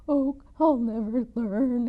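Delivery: slow, drawn-out lament; howling. Acted. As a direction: howl it in despair. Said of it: "howled Big Anthony".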